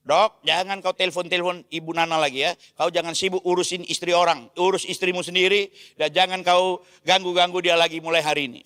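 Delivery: a father scolding the doctor on the phone. Retold or imitated. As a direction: tell him off, growing sterner. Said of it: "Saya marahin dia".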